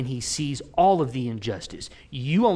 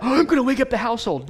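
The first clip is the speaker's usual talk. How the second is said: thinking aloud; 10 semitones higher, 7 dB louder, faster than usual. Retold or imitated. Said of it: "I thought".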